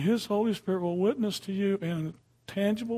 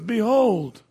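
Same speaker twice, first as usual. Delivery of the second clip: Behold rung out loud and slow-falling; proclaiming; 3 semitones higher, 9 dB louder than usual. Acted. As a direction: announce Behold to the room. Proclaims scripture word again.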